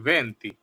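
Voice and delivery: ভেন্তি said as Italian venti, short and clear; Italian number. Shown as a demonstration. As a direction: model ভেন্তি as Italian ventee. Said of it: "আমি আবারও বলছি". (ইতালীয় উচ্চারণে ভেন্তি)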